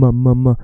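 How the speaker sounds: a loud, held hum on M; buzzing M. Shown as a demonstration. Teacher showing how a Swedish word ends, a loud hummed M. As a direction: hum the m hard and long. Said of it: "you have to say the M".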